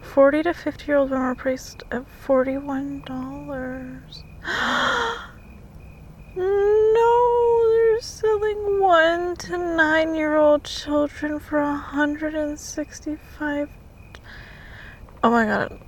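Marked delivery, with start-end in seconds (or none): 4.3-5.3 sharp high gasp of shock; high shocked intake of breath. Real, not acted. Reading shocking news. 6.3-13.7 higher, slow horrified no; high, slow shocked reading; shocked disbelief. Real, not acted.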